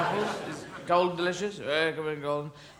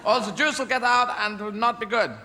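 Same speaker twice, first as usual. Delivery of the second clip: lightly hammed German captain giving orders; Jürgen Prochnow; 5 semitones higher than usual. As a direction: command the crew like a U-boat captain. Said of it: "With Jürgen Prochnow going".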